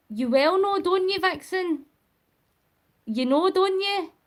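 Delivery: high teasing voice to a cat; pet talk. Real, not acted.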